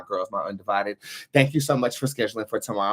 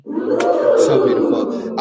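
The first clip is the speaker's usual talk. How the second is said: breathy admiration; 8 dB louder, much slower than usual. Real, not acted. Admiring the plant.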